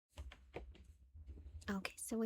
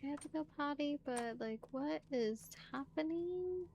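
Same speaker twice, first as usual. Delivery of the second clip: voicing Honey, confused; 5 semitones higher than usual. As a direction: act out a puzzled character who needs the potty. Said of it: "she's like".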